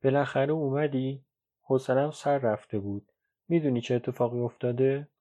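mildly glad, lifted voice; a touch of cheerful relief; happy. Acted. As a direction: welcome your child home with light pleasure. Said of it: "مادر با خوشحالی گفت".

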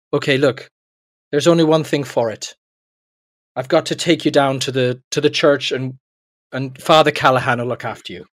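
lightly put-on Irish postman; a touch of mock Irish; bad Irish accent. Postman advising young Seamus, bad Irish accent. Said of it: "your Irish accent".

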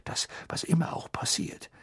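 whispered, hurried plea; father figure whispering a plea; urgent whisper. A narrator's reading. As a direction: breathe it urgently to the boy. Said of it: "sagte Mister Weasley noch hastiger".

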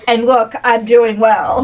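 slow, mock self-satisfied boast; reverse bragging. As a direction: draw out the boast as a light send-up. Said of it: "there's the reverse bragging".

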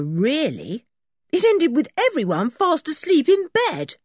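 put-on high, eager boy explaining; Dick's boyish voice. Boy telling the sergeant the men are locked up, high and eager. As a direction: rattle off the news like a proud schoolboy.

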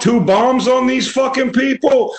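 high mock rant. Ranting Cap impression.

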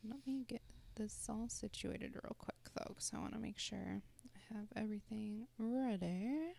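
clicking tongue between words; soft words with tongue clicks. Real, not acted. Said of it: "Why do I keep clucking?".

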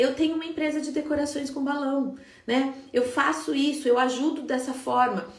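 lightly confident, steady businesswoman voice. Shown as a demonstration. Coach shows students the right way, a touch of confident business tone. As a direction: own it like a company owner, mildly assured. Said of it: "que você tenha tom de voz de empresária".

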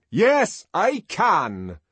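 high, loud defiant reply; very loud answer. A narrator's reading. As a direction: ring it out across the room. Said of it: "answered in a very loud voice".

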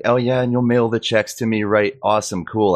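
retold sarcastic agreement. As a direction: play fake delight at useless news. Retold sarcastic answer about mailed checks.

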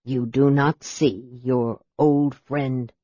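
low and deliberate, a grave mage. Acted. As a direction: speak low, weighing each word. Raistlin's low voice.

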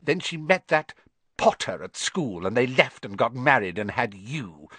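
bitter tirade climbing high and loud; ranting. A narrator's reading. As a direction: rant on as if long bottled up. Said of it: "went ranting on".

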